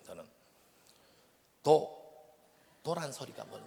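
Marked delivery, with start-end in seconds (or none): 1.6-2.0 abrupt, loud one-word Gyeongsang demand; Gyeongsang dialect prayer. Shown as a demonstration. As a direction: pray bluntly in Gyeongsang dialect. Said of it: "경상도 사투리로 기도를 해요".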